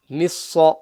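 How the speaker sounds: مِصَّ with a heavy, doubled sad; full-mouth sad. Shown as a demonstration. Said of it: "Sa is full mouth".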